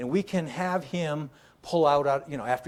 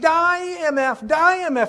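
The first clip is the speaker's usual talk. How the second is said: very loud, shrill, high furious scream; 9 dB louder than usual. Speaker retells a senator shooting at a screen, retelling his screamed expletives. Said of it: "he's screaming these expletives".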